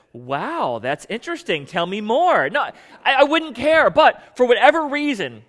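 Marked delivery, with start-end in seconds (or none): 0.1-2.5 sarcastic. Pretend. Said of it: "looked at her sarcastically and said".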